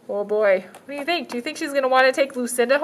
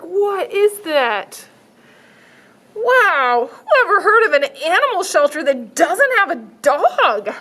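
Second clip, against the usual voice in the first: passing cars; 6 semitones higher, 5 dB louder, slower than usual. Acted. Cars voiced in story.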